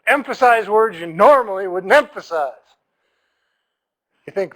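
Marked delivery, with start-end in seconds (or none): 0.1-2.5 exaggerated stresses on "emphasize" and "normally"; stage-style odd emphasis. Shown as a demonstration. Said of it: "They teach you to just".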